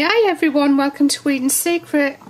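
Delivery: slightly husky, catching voice; frog in throat. Real, not acted. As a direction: talk through a frog in the throat. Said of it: "I've got a frog in my throat".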